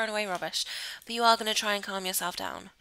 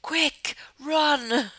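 higher, louder, rushed-sounding command; urgent urging; 6 semitones higher, 3 dB louder, slower than usual. Real, not acted. Gamer sending character to the shower, urgent urging. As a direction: hurry someone along in playful panic.

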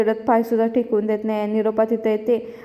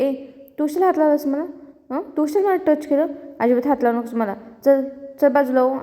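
mildly raised, indignant scolding; Devika; 3 semitones higher than usual. Retold or imitated. Devika to Meera, who caught her hand: mild retold scolding. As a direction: scold lightly, pitch a little up. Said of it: "ओरडते".

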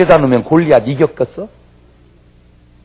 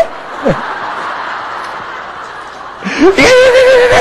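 long, high-pitched real laugh; high burst of laughter. Real, not acted. Preacher laughing at his own story, high long laugh. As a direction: cackle high and long at the joke.

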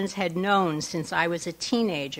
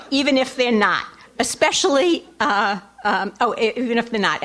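excited; 4 semitones higher, 4 dB louder than usual. Real, not acted. Excited punchline to the joke.

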